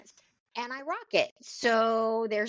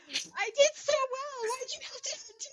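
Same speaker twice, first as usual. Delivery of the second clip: whiny voice; 5 dB quieter than usual. Retold or imitated. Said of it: "on her face is".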